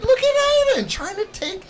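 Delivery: high, loud, amused alarm; excited. Real, not acted. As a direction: call it out in surprise. Kid grabs another kid's taco.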